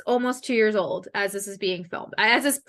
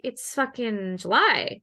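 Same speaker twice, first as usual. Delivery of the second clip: deadpan retort; slower than usual. Retold or imitated. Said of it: "And I'm like".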